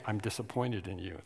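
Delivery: a hint of a stern father, hushed; quiet dad. Dad scolding his little boy, hushed and disappointed. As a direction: say it low, like a let-down dad. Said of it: "He'd say".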